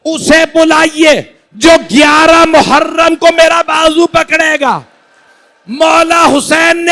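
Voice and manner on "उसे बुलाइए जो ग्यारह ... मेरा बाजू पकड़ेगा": loud, high wailing cry, slowed; weeping plea. Acted. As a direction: cry out through tears to her brother. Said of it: "जनाब जैनब ने रो के कहा".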